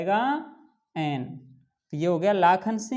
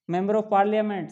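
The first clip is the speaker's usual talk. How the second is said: slow dictation; 4 dB louder, much slower than usual. Shown as a demonstration. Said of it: "तो ये देखो member".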